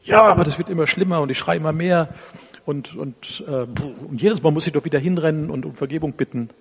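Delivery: half-acted desperate husband pleading; despairing complaint. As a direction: blurt it out like a man losing control. Distressed caller retold.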